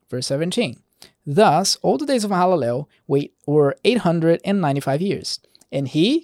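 measured verse-by-verse Bible reading; scripture reading. Acted. Preacher reading Genesis genealogy to listeners, measured scripture reading. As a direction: read the genealogy aloud, deliberate on each closing phrase.

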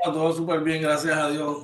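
echoey room sound. Real, not acted. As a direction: voice with room echo. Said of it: "Si se escucha un poquito de eco". (con eco de cuarto)

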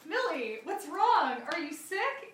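mild mock concern; concerned fan. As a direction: imitate a fan asking after someone. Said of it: "And the guy was like".

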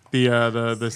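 stammering, lost for words; stuck on the same word; speechless stammer. Real, not acted. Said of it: "You sound like Ming now".

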